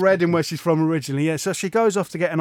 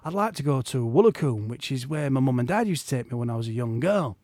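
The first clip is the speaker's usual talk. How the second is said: put-on soft, quiet Yorkshire accent; 5 dB quieter than usual. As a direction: imitate the wife in a Yorkshire accent. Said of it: "which is why I'm doing a Yorkshire accent".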